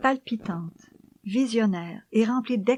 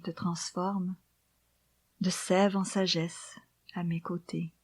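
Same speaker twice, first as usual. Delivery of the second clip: poem recitation. Acted. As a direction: read the poem gently, almost whispered.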